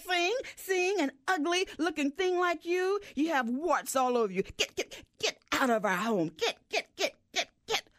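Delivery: high, scornful bird voice driving the frog out; angry bird chasing off. Acted. Head bird chasing frog away.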